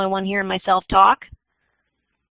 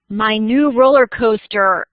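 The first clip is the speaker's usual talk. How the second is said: drawn-out commercial opener; radio ad read; 4 dB louder, slower than usual. Shown as a demonstration. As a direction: start a radio commercial, slowly stretching the words. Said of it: "read this like it's an ad".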